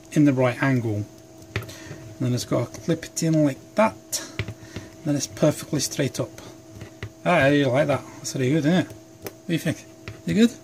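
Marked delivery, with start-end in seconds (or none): 1.6-10.5 put-on Scottish accent. Vlogger fussing over the knife clip in Scottish accent. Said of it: "I apologise if I'm offending any Scottish people".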